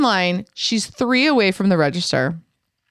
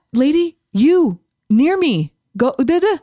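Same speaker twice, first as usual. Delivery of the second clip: higher, dismissive shoo-away; mock shooing; 6 semitones higher than usual. Mocking the germ-worried lady, high mock shoo. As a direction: brush the nosy lady off like a fly.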